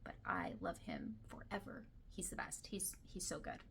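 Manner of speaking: whispered confession of love, voice dropped to breath; dreamy whisper. Real, not acted. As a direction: lean in and whisper it like a secret crush. Gushing about book boyfriend.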